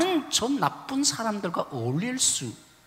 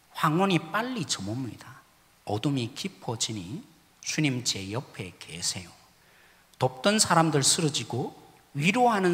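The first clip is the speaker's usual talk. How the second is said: reading hymn lyrics; 4 semitones lower than usual. Acted. Pastor reads the hymn translation to the congregation, prayerfully. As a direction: read it like a prayer, unhurried.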